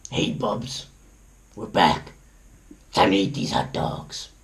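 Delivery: hushed whisper to a friend. Real, not acted. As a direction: whisper it close and secret. Whispered aside to someone.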